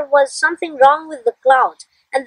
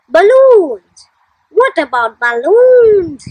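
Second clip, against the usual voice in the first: excited idea; 3 semitones higher, 5 dB louder, much slower than usual. Acted. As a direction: blurt it out thrilled. Child shares big idea.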